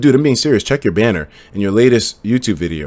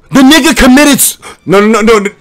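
higher and louder, refusing to believe it; stunned disbelief; 10 semitones higher, 8 dB louder than usual. Real, not acted. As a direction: stammer out the shock. Reacting to shocking news.

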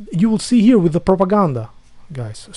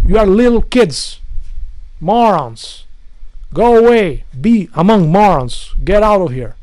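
angry shout. Real, not acted. Ranting at commenters.

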